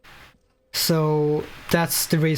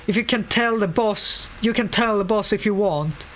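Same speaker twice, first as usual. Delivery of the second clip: a lightly raised voice for the annoyed worker; reading voice for a game character; 3 semitones higher than usual. Acted. Player voicing the abandoned painter's complaints, lightly acted grumble. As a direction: read the worker's grumbling lines with a touch of put-on voice. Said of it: "I'm trying to develop a good voice for reading".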